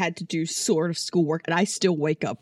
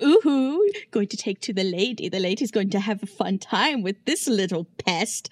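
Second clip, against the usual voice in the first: mocking villain voice. Villain taunting captive Feyre.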